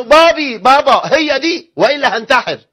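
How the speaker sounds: high, loud whiny plea; spoiled son pleading. Retold or imitated. Son begging his father to let him marry her, whiny and loud. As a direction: beg daddy like a spoiled kid. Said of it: "قال له".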